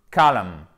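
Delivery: "Column" as KOH-lun, loud and falling; diphthong O. Shown as a demonstration. Teacher models the word for learners, O diphthong. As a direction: hit the gliding first vowel of "Column". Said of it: "C'est un E qui va sur un O".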